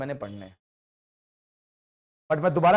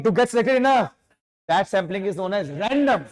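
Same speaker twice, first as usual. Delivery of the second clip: slow, deliberate finishing of the definition; slow dictation; 4 semitones higher, 4 dB louder, much slower than usual. Shown as a demonstration. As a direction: drag it out so they catch it. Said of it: "बात बहुत धीरे से बोल रहा हूं". (धीरे धीरे परिभाषा पूरी करना)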